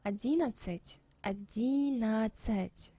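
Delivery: одиннадцать with no d before the ц; silent d. Shown as a demonstration. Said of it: "You actually cannot hear d here".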